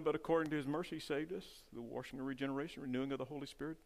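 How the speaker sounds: quiet appeal. Acted. Preacher to his friend in the pews, softly. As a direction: draw the listener in gently.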